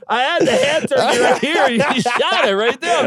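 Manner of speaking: lightly voiced sorry guy; apologetic victim. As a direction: keep apologizing sheepishly. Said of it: "That guy's like".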